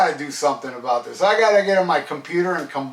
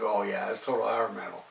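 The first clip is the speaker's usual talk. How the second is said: offhand concession; 7 semitones lower, 10 dB quieter than usual. Retold or imitated. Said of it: "I'm like".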